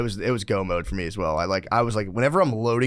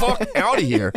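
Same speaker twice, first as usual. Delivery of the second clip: high, loud tantrum yell; toddler tantrum; 10 semitones higher, 3 dB louder, slower than usual. Retold or imitated. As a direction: throw a toddler fit. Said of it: "a toddler freak out".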